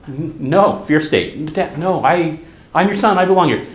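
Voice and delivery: put-on rising, pleading little boy's protest; pleading child. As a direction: beg like a scared kid not to be sent away. Child pleads with teasing dad.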